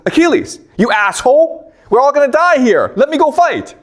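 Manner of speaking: urgent Patroclus. Retold or imitated. Patroclus begging Achilles to let him fight, frantic. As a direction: burst in urgently, voice up high.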